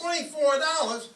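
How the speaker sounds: incredulous high outburst; shocked. Acted. Husband aghast at what his wife paid. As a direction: yelp the price back at her in disbelief.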